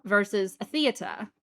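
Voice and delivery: "theater" in a put-on British accent, no r at the end; British accent set against the American one; fake British accent. Shown as a demonstration. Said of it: "I have to go into the American accent".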